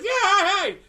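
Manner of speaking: high, loud drawn-out cheer; Kermit. Retold or imitated. Showing friends how he throws up his arms, high loud Kermit cheer. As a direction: whoop it like an excited puppet. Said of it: "throw up his arms like Kermit".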